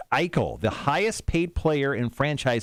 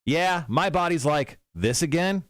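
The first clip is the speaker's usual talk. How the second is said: raised, slow quoted voice; quote read as a bit; 5 semitones higher than usual. Retold or imitated. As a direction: lift the voice and stretch the quote out. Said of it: "Here's the last quote".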